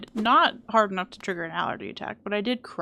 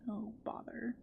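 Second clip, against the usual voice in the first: Winnie the Pooh voice; 15 dB quieter, slower than usual. Pretend. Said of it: "turned me into Winnie the Pooh".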